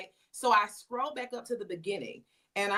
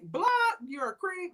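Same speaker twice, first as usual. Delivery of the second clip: mock disgust; 11 semitones higher than usual. Retold reaction to stranger's messages.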